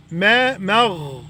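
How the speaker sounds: مغ drawn out slowly, the غ held long. Shown as a demonstration. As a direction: hold the غ in مغ. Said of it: "والغين حرف رخو".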